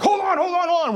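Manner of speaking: laughing mock shout. Gunner shouting during evasive banking.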